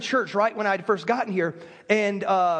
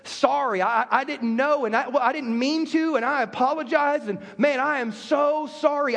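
sincere apology. Shown as a demonstration. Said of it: "the first thing out of my mouth is".

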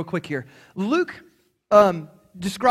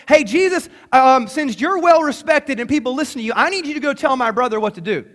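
loud, raised heckler's call; imitated yell; 3 semitones higher, 6 dB louder than usual. Man in the crowd demanding Jesus' help, imitated yell. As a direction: call out over a crowd, half yelling. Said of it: "this guy just yells".

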